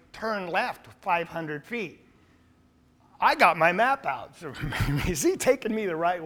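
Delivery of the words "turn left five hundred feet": slow, soft, evenly paced GPS voice; mechanical computer voice. Retold or imitated. Preacher imitating the GPS giving directions, slow and mechanical. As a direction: read it like a robotic navigation voice. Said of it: "computer voice".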